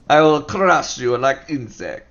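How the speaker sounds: slow booming barbarian brute; lightly voiced dumb brute. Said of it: "No, it's not like that".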